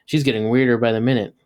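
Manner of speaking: talking through food; words round a bite of pizza; mouth full. Acted. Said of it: "blubbered up with his mouth full".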